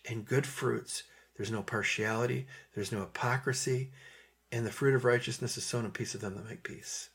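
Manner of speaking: softly recited scripture with lingering pauses; gentle, peaceable. Acted. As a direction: let each quality of wisdom land softly. Reciting gentle, peaceable wisdom from above.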